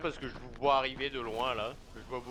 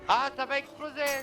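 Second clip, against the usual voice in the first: alarmed warning; 12 semitones higher, 3 dB louder than usual. Real, not acted. Warning of explosion.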